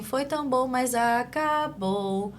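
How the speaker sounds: put-on sing-song child voice, drawn-out acabou; emotional delayed echo of a stock line; echolalic child's phrase. Shown as a demonstration. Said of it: "ela vai falar assim".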